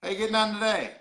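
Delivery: Newfoundland accent demonstration; Newfoundland phrase. Shown as a demonstration. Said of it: "I'll try a different one".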